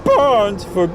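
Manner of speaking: high, slow, terrified cry rising to a wail; terrible cry. Acted. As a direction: cry out his name in horror, stretching every word. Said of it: "burst into a terrible cry".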